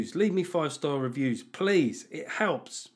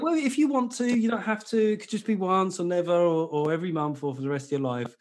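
higher-pitched, hesitant people-pleaser; diffident pleading; 3 semitones higher than usual. Acted. Host playing apologetic Kofi to guest, diffident. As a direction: tentatively offer a way out, voice starting high. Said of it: "Kofi is kind of like".

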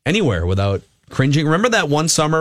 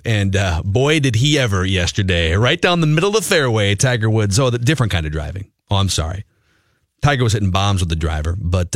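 steady radio sponsor read; live ad read. Acted.

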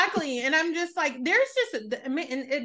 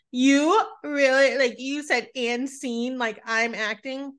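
slow, drawn-out imitation of a friend; mock the friend's complaint, stretching it; mock accusation; 3 semitones higher, slower than usual. Friend complaining at dinner, lightly imitated, slow. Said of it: "my friend was like".

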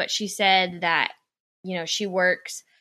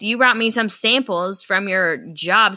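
louder, exasperated call-out; indignant rant; 3 semitones higher, 6 dB louder than usual. Real, not acted. Speaker scolding the saleswoman for her fake gift, louder. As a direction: tell her off like she's right in front of you. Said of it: "I'm getting angry right now".

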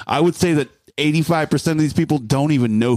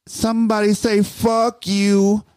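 higher-pitched performer's hype line; imitated stage call-out; 7 semitones higher than usual. Rapper prompting a hostile crowd, imitated call-out.

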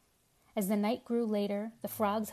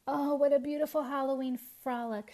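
dreamy sigh; 5 semitones higher than usual. A narrator's reading. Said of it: "sighed Babette".

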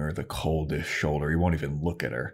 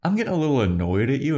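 annoyed; 3 semitones higher than usual. Retold or imitated. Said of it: "Buffy's like".

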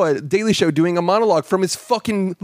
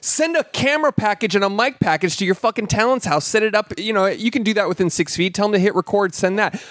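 higher, heated fed-up tirade; real rant; 4 semitones higher than usual. Real, not acted. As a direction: vent your irritation full steam. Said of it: "I am so mad".

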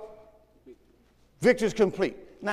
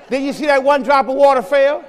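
emphatic challenge; 3 semitones higher, 6 dB louder than usual. Real, not acted. Preacher challenging the congregation.

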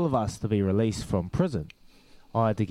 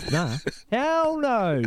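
laughing refusal; 11 semitones higher, much slower than usual. Retold or imitated. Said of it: "And I said".

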